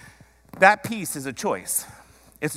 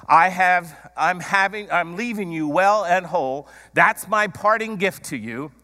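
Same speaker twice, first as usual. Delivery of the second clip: raised, louder voice as Jesus declaring his gift; emphatic declaration; 5 semitones higher, 5 dB louder than usual. Acted. Preacher voicing Jesus to his followers, emphatic declaration. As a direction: proclaim it higher and firmly.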